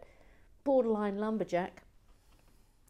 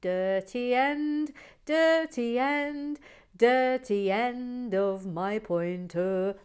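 slow, louder, higher fuming complaint; fuming quote; 5 semitones higher, 6 dB louder, much slower than usual. Retold or imitated. Host reading a fuming viewer's complaint, slow and loud. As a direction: drag it out like an outraged viewer. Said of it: "Oh, look, Gary Blair".

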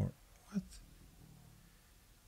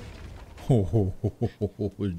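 long, low rippling laugh; low laugh of amazement; low chuckle; 7 semitones lower, 3 dB quieter than usual. Real, not acted. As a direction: chuckle in a long descending run. Amazed reaction to game.

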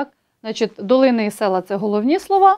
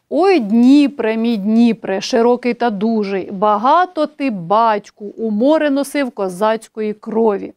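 poem recitation; slower than usual. Shown as a demonstration. Teacher reciting folk verse example to the class, stately recitation. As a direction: declaim the river address like a poem.

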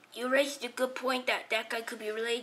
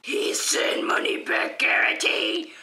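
whispering; slower than usual. Acted. Aside whisper.

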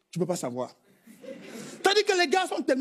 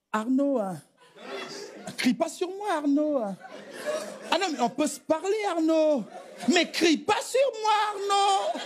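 mock white wife. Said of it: "même quand sa femme se fâche".

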